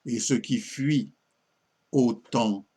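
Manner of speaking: measured sonnet reading, pauses between phrases; lightly declaimed French verse; poem recitation. Acted. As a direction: recite it line by line, letting each ending fall.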